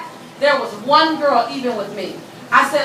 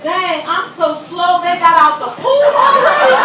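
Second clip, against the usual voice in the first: mock surprise; 3 semitones higher, 5 dB louder than usual. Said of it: "I said".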